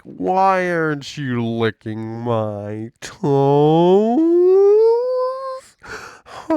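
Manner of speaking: loud, slow, smug boss voice; mock demanding boss. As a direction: drawl it out like an entitled manager. Imitating demanding corporate bosses.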